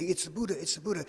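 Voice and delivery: mildly excited, acted-out farm workers; excited recognition. Farm workers spotting the Buddha, excited.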